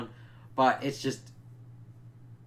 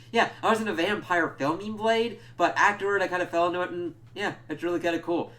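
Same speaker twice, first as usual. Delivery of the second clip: imitated actor; 6 semitones higher, faster than usual. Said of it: "He's like".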